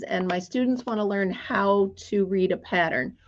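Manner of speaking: ordinary delivery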